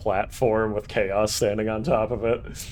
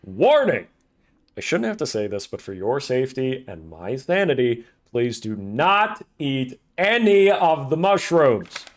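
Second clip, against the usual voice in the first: mock safety announcer; 3 semitones higher, 4 dB louder than usual.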